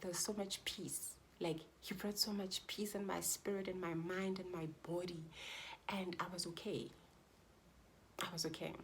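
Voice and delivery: soft, hushed and calm; quiet, sincere peace; peaceful. Real, not acted. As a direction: let the relief settle in. Describing peace after seeing baby.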